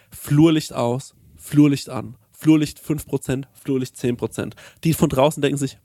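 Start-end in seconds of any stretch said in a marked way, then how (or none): 0.1-4.5 slow, deliberate commands to Alexa. Retold or imitated. Lying in bed, slowly giving commands to Alexa. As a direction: spell each command out slowly. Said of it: "im Bett liegen und sagen".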